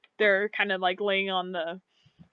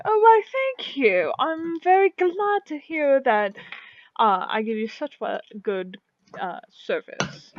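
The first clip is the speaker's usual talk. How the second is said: flattered tailor; 5 semitones higher, 4 dB louder than usual. Acted. Tailor thanking a customer who praised him, flattered. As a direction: play a delighted tailor, stretching the words. Game master voices the tailor.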